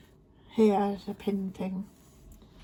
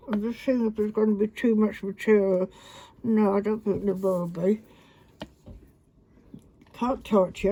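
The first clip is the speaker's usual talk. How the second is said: talking around pins held in lips; pins in mouth. Real, not acted. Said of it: "I've got a pin in my mouth".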